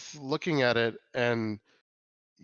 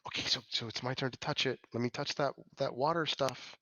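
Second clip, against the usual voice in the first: softly voiced aside, short of a true whisper; 5 dB quieter than usual. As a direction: half-whisper it to a companion. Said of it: "So Kiri does whisper to you".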